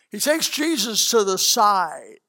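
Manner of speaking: hushed storytelling whisper; a preacher whispering Peter's private move to the congregation. Acted. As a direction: lean in and whisper it. Conspiratorial aside in story.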